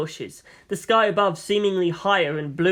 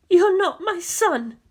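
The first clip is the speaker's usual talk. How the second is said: aunt's cold voice; 12 semitones higher, slower than usual. A narrator's reading. Aunt coldly rejects boy.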